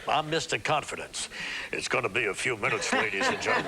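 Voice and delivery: a hint of a deep, gravelly pilot; lightly imitating a smug captain on the intercom; airline captain voice. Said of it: "Comes on with that deep, gravelly voice like".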